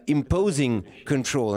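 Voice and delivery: "control" given weight, said slowly; slowed emphasis on the word "control". Real, not acted. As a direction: lean on "imposing control", slow and deliberate. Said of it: "I would like to emphasize this word".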